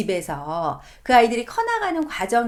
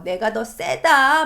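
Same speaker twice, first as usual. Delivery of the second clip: slow, heavy declaration of dominance; mock asserting power; 3 semitones higher, 4 dB louder, much slower than usual. Parent overpowering a rebellious son, slow domineering. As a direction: lay each word down slowly to overpower. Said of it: "더 센 힘을 가지고 막 누르려고".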